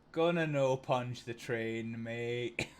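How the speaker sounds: slow, unbothered monotone station announcement; monotone tannoy announcer. Retold or imitated. Station attendant telling a kid off over the tannoy, monotone. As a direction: imitate a bored-level, unvarying tannoy voice. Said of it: "Just this monotone voice".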